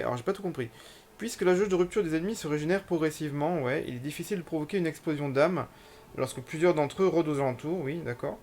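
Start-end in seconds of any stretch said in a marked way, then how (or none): 1.2-7.8 reading a game tutorial aloud; slightly formal read-out of game text. Acted. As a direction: read on-screen instructions out, phrase by phrase.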